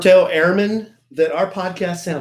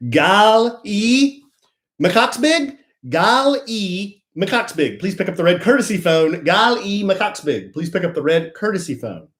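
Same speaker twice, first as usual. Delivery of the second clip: airport announcer voice; 4 semitones higher than usual. Acted. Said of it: "I'm not gonna react".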